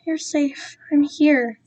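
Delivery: soft, soothing reassurance; calm the crying child; softly reassuring captor. Acted. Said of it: "continuing the soothing motions".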